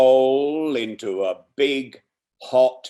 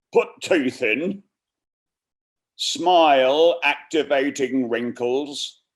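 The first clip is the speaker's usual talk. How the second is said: put-on rough northern English accent, a bit louder; North Country accent; 3 semitones higher, 4 dB louder than usual. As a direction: read it in a homemade Yorkshire accent. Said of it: "in an imitation North Country accent".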